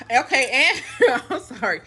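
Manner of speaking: winded, catching her breath. Real, not acted. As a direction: talk while short of breath. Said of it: "I feel winded".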